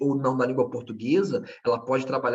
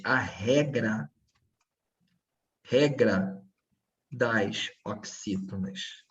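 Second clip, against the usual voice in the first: "regra" slow and lower, then repeated; stress on REGRA; 4 semitones lower, much slower than usual. Shown as a demonstration. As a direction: lean slowly on "regra". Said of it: "Quando eu falo regras oxítonas". (ênfase lenta em "regra")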